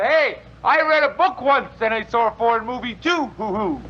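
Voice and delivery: mock show-off call; mocking yell. Husband mocks his wife, mock yell. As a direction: sneer in a silly voice. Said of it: "Yell out".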